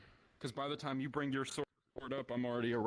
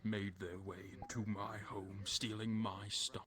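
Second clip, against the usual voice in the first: posh villain; 5 dB quieter, slower than usual. Acted. In-character British posh villain.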